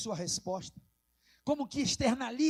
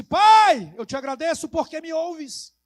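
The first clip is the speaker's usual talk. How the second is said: high, loud drawn call; loud crying out; 7 semitones higher, 15 dB louder than usual. Acted. Jesus calling to the Father at the tomb, loud cry. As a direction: cry out to heaven with full force.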